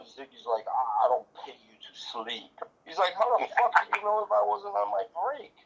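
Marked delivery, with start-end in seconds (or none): 0.7-2.5 a hushed, breathy whisper of a smug comeback; whispered retort. Retold or imitated. Ziggy answering the cop. 3.2-5.6 indignant cop. Retold or imitated. Cop arguing back.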